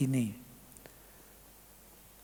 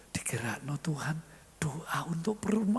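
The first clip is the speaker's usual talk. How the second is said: hushed whisper; 6 dB quieter than usual. Acted. Wife tells husband quietly.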